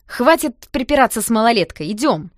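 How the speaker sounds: loud, curt order; curt command. Acted. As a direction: clip it off, impatient to leave. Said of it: "отрывисто бросил". (отрывисто и громко, с раздражением)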